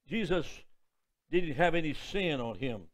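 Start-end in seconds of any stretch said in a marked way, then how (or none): none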